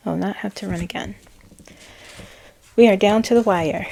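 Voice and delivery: firm, pressing urgency; commanding urgency. Retold or imitated. Reading a channeled message with urgency. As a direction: down to the wire, push it. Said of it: "Sense of urgency".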